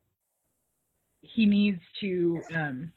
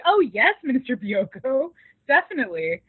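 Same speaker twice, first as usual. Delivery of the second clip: mock-obliging, high and loud opening that settles down; eagerly obliging; 3 semitones higher, 4 dB louder than usual. Staff member agreeing to a guest's request, mock-obliging. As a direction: gush a retold yes to an important guest.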